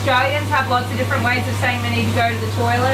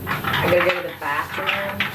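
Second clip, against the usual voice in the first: a light put-on American accent; lightly voiced American "I gotta go to the bathroom"; mock American accent; 4 semitones lower, 3 dB quieter than usual. Shown as a demonstration. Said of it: "Do you guys say bath-, bathroom?".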